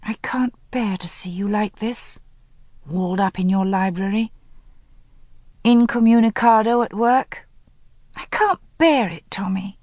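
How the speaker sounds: softened, pleading, rising on the second I can't bear it; tender plea. Acted. Helen pleading tenderly with Tommy, anger gone. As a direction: melt into concern and plead. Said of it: "Her anger melted immediately".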